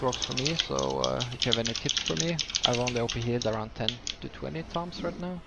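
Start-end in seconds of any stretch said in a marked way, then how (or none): 1.3-5.4 slight lisp with nasal voice. Real, not acted. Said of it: "I'm sorry about my lisp and my nasally voice".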